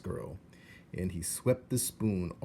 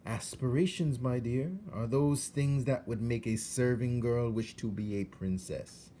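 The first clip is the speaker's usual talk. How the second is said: courtly, slightly higher rat voice; suave rat; 4 semitones higher, 3 dB louder than usual. Acted. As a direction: explain with honeyed charm. Roscoe explains to Meg.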